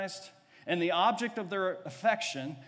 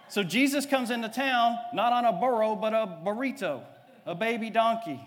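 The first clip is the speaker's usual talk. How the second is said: playful punchline; 5 semitones higher, 6 dB louder than usual. Acted. Punchline on the burrito joke.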